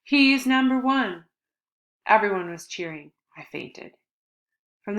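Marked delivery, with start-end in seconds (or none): 0.0-1.2 high, loud, slow triumphant yell. Acted. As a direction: chant it while hoisting him up.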